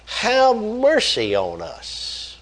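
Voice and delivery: high, drawn-out plea for mercy; crying out. Acted. Preacher reads the blind men's plea, crying out. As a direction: call it out slowly, pitched high. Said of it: "cried out".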